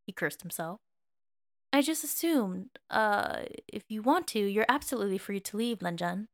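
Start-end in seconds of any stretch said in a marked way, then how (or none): 1.7-6.3 pained sincerity. Acted. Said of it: "said with a pained sincerity".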